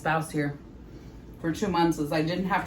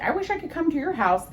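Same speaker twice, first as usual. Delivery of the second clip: high, eager quoting friends; high imitating voice; 10 semitones higher than usual. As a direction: mimic friends' wistful wish up high. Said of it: "People are always like".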